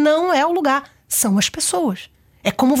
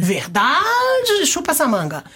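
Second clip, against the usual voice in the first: triumphant gloat; 2 semitones higher, much slower than usual. Real, not acted. Triumphant about tomato fact.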